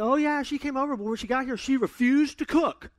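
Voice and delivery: high, loud exasperated complaint; mock irate. Son complains to his mom about the ruined date, mock irate. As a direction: act out an indignant son, punching the last words. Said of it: "he was irate".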